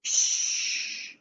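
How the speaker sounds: whispered hush; shushing giant. Acted. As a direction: hush the others urgently. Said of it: "said a third, very large voice".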